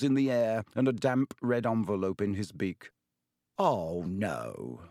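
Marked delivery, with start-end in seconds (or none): 3.6-4.8 low, dismayed gasp. A narrator's reading. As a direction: sink into dread, pitch dropping. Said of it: "Ron gasped".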